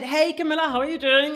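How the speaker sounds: put-on fast, friendly northern Manchester accent. Retelling a first call with Bilal, imitating Bilal's Manchester accent. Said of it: "That's his Manchester accent".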